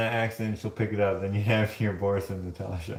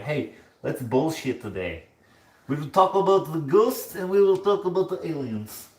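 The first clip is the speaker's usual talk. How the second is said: high, put-on singsong mockery; higher-pitched mocking put-on voice; mock chatty Kathleens; 5 semitones higher than usual. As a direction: mimic a silly crowd in a high voice.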